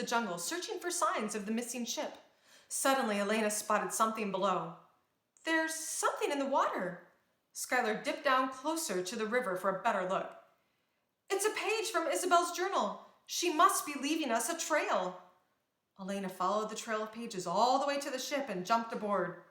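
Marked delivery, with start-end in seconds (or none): 5.4-15.2 a touch higher, eager discovery; lightly voiced eager princess; mild excitement. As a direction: spot the clue with hopeful urgency.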